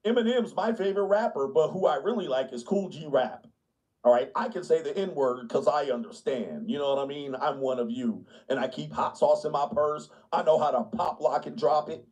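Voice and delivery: lightly voiced try-hard white liberal; chummy overeager pandering; hint of a wannabe-cool ally; eager liberal. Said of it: "Liberal white people be like".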